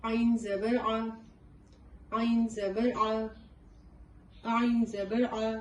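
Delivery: عین زبر آ repeated slowly, throaty آ; drilled ain with fatha. Shown as a demonstration. Teacher drilling the ain sound for learners. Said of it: "دیکھیں اس کو کیسے ادا کریں گے".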